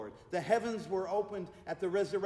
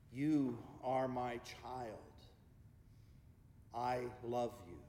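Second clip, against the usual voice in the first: slow, measured God, dropping lower at the end; 4 semitones lower, 5 dB quieter, slower than usual. Acted. God speaks to a praying church family, slow and settled. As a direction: speak slowly as God, with long pauses. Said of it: "hear the voice of God".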